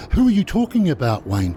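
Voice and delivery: high, rattled question; confused alarm. Retold or imitated. Sarah confused by the cop.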